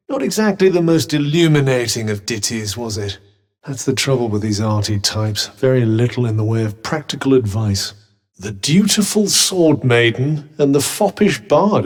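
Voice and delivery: loud, emphatic mockery; mock the bard loudly, with relish; scornful critique. Mocks a bard's ditty.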